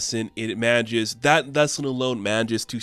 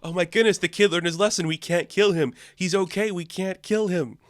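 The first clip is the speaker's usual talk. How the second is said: touched monster; 8 semitones higher than usual. Retold or imitated. Krampus moved by the kid.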